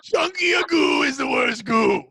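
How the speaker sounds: mock doctor. Mock medical expert opinion.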